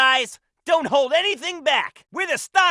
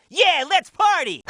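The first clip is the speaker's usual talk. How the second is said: excited rally cry; 6 semitones higher, 4 dB louder than usual. Acted.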